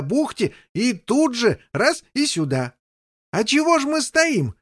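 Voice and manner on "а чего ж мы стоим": mildly raised, high call; shouting. Acted. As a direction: call up cheerfully. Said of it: "кричал король".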